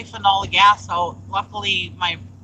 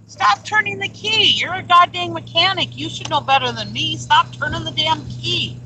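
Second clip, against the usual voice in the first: high-pitched retold telling-off; indignant, raised-pitch reprimand; exasperated scolding; 7 semitones higher than usual. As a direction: scold him like he should know better. Retells scolding husband over key.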